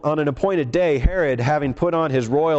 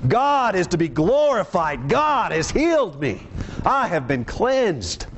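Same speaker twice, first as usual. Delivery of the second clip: high-pitched proclamation, no louder than preaching; loud public praise, acted; 4 semitones higher than usual. Preacher acts healed man glorifying God publicly, mild proclamation. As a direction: proclaim it to everyone in earshot, pitched up. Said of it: "glorifying God with a loud voice".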